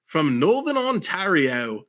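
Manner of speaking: slow, put-on Northern Ontario accent; hint of a drawn-out Northern Ontario accent. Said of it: "I don't know why I did the accent".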